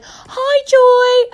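very high, loud mock holler; shouted greeting. Woman shouting across the road to Joy, high mock holler. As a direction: imitate a woman yelling hello from afar. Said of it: "some woman shouted across the road".

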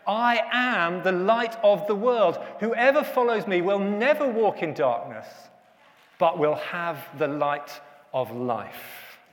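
slow, measured reading of Jesus' words; solemn scripture quote. Acted. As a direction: lay each phrase down slowly and reverently. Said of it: "he said".

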